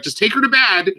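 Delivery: imitating sister. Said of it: "My sister's like".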